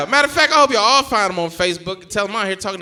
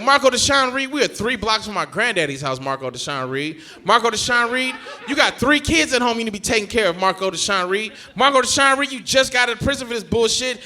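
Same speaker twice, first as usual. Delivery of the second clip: raised-voice rant at a cousin; acted telling-off, punching each new charge; hammed-up nagging outrage, pitched up; exasperated scolding; 4 semitones higher than usual.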